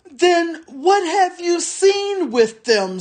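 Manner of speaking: snarled retort. A narrator's reading. Small orc snarling back at the soldier. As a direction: bite back at the bigger orc. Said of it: "snarled the other".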